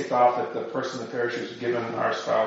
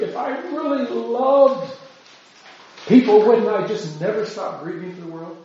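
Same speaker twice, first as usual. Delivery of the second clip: mock-anguished scrupulosity; 4 semitones higher than usual. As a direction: lightly act out someone wallowing in guilt. Voices over-scrupulous people grieving for world.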